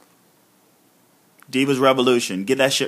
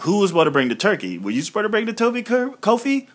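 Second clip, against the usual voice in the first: mock accusing; 6 semitones higher, faster than usual. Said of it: "they were like".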